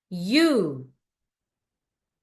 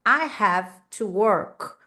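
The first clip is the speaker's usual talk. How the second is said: slow model sentence; much slower than usual. Shown as a demonstration. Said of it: "ó, eu tenho que trabalhar".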